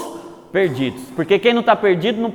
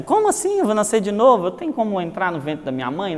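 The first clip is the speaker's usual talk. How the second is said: mild ironic question; 6 dB quieter than usual. Retold or imitated. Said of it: "irônico, meio que dizendo".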